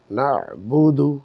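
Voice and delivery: না বুদু slowly, ain pressed from the throat. Shown as a demonstration. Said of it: "কণ্ঠনালীকে চেপে উচ্চারণ করব".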